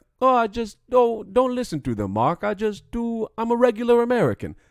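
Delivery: put-on high, loud Russian-sounding accent. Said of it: "He sounds like he's from Russia".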